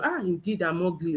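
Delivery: mildly acted disappointment; mock self-pity. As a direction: play someone sinking at their reflection. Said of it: "you go and look at the mirror".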